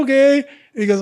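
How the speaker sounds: high, loud whiny mimicry; whiny little voice. Teller mocking the fight promoter on speakerphone, whiny little voice. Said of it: "Art's got this whiny little voice".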